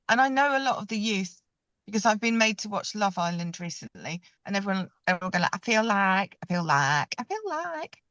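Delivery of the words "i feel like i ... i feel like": bad Essex accent; mock Essex accent. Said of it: "That's a terrible Essex accent".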